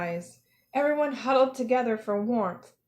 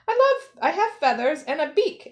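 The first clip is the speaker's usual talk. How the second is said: indignant; 6 semitones higher, 4 dB louder than usual. A narrator's reading. Quentin insists he's a real bird.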